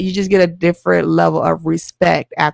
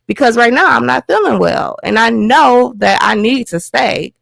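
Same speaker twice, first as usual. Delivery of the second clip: higher and louder, pressing every question; heated demand; 5 semitones higher, 3 dB louder than usual. Retold or imitated. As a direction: push back hard at the doctor, voice raised. Confronting the doctor at the hospital.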